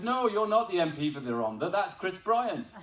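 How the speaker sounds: high, loud mock contradiction; imitating disbelieving lad. Lad telling the MP he's someone else, disbelieving. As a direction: correct him emphatically, drawing out the name.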